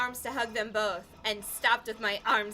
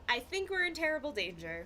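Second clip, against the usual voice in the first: emphatic; 5 semitones higher, 4 dB quieter, faster than usual. Acted. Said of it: "That sounded so emphatic".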